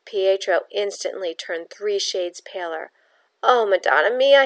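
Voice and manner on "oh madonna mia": cried out. Acted. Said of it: "he cried".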